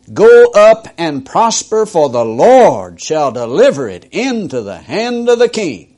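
mock the king with false approval. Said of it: "Now he begins to mock them".

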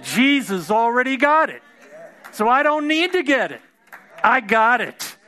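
exultant faith; triumphant declaration. Retold or imitated. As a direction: shout down the devil's lie. Triumphant reply to the devil.

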